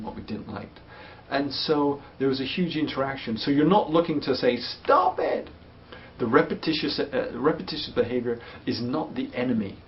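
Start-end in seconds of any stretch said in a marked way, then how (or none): 4.6-5.5 a high, sharp snap of "stop it"; sharp stop command. Retold or imitated. Parent snapping at a child to stop repeating. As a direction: bark it at the child to make it stop. Telling parent what not to say.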